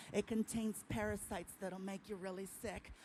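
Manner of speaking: lightly voiced Indian accent warning; a mild Indian-accented caution, sinking to a whisper. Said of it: "I love his accent".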